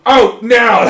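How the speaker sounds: loud command; barked order. Retold or imitated. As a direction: order him out sharply. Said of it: "I go".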